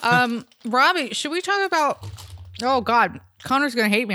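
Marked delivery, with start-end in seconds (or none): 1.1-4.1 chewing a hard gummy mid-sentence; mouth full. Real, not acted. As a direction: talk through a mouthful. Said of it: "I'm, like, chewing this hard-ass gummy".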